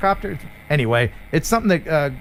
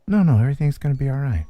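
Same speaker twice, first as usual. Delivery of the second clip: soothing calm voice; 4 semitones lower, faster than usual. Retold or imitated. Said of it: "you want Russ there to be like".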